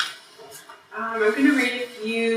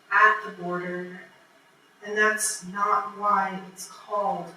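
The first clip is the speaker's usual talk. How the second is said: measured poem reading, lingering in the pauses; poetry reading; slower than usual. Acted. Poet reading own poem to a live audience, measured poetry reading. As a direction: read it line by line, with deliberate breaks.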